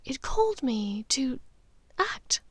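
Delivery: a mother confiding something uncanny, half-whispered; Narcissa's voice. Acted. Narcissa answers Draco.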